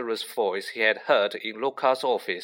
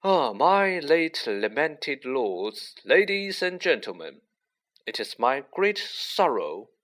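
solemn speech; 3 semitones higher, slower than usual. A narrator's reading. Nick begins his death-day speech.

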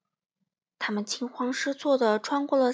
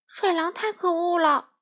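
high, aggrieved outburst; indignant accusation; 8 semitones higher, 4 dB louder than usual. A narrator's reading. Small friend complaining to the rabbit, indignant. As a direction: blurt out your grievance. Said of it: "欢仔忍不住控诉道".

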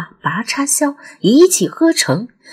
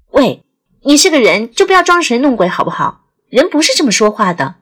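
impatient; faster than usual. Acted. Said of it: "小婉又有些不耐烦了".

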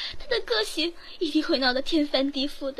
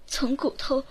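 louder, slow contempt; slow scorn; 3 semitones lower, 4 dB louder than usual. Acted. Maid scorns the nanny, slow and loud. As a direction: lean on every word with disdain.

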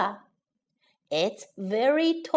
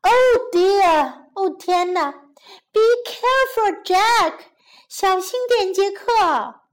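high, anxious calling out; mother urgently warning her child; very worried; 5 semitones higher, 4 dB louder than usual. Acted. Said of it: "担心极了". (担心地高声提醒)

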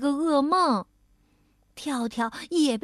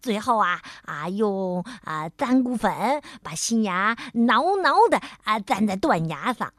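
chatty beaver dentist; 4 semitones lower than usual. Acted. Dentist explains with filler 啊.

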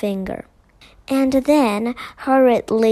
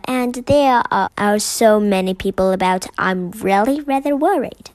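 worried; 5 dB louder than usual. Acted. Mrs Brown worried asking.

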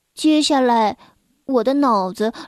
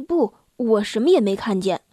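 calm, flat reply; 4 semitones lower than usual. Acted. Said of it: "他淡淡地说".

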